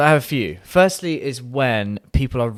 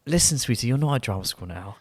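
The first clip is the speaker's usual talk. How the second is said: retelling a patronising line to his partner, lightly done; patronising quote. Retold or imitated. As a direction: talk down to her sweetly. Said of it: "turned around and said".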